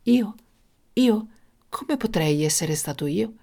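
mildly puzzled innocence; simple innocent reply. Acted. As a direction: answer simply, as if blameless. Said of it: "rispose semplicemente".

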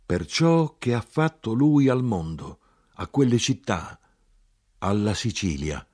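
emphatic start settling down gradually; solemn phrases, gradually subsiding; calm continuation. A narrator's reading. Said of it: "Continuai con calma".

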